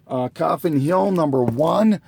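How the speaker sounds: hoarse, strained voice from losing it. Real, not acted. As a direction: talk through a hoarse, tired throat. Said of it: "I'm losing my voice here".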